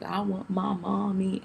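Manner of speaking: put-on slow, pleading child's wail; crying for mommy. Retelling the labour to viewers, slow tearful plea. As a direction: beg for mommy through tears. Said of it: "I was crying so bad".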